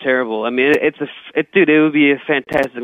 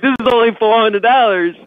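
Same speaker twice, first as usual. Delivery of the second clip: high, raised mock yell at the girl; 8 semitones higher, 3 dB louder than usual. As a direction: squeak it out like a retold rant. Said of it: "yelling at this broad".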